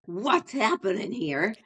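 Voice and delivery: sharper, suspicious "What's happening here?" with a rise; pointed, confrontational version of the same question; accusing tone. Shown as a demonstration. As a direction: demand it like you caught them. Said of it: "Listen to my tone, same words".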